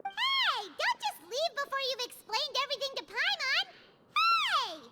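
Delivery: high shouted Hey, calling after him. Acted. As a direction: yell to stop him leaving. Paimon yelling after Wriothesley leaves.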